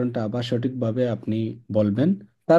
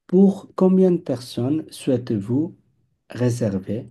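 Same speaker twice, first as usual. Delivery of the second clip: slow model; much slower than usual. Shown as a demonstration. Teacher reading the receptionist's line for the class. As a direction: read the receptionist's line slowly. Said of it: "Réceptionniste".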